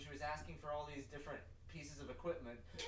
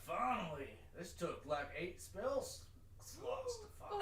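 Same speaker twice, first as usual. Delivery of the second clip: exasperated relief; 5 semitones higher, slower than usual. Acted. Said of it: "You're like".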